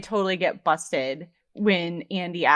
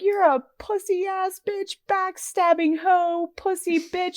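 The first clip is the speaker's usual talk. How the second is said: stretched high-pitched name-calling; James; 11 semitones higher than usual. Retold or imitated. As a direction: imitate his taunts in a raised pitch. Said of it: "then when he's like".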